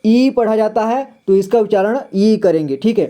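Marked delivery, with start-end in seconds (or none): 0.1-0.3 ई said as a held ee; long ee sound. Shown as a demonstration. Teacher showing the letter's sound, ई as long ee. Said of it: "बड़ी का उच्चारण वैसे ही करेंगे".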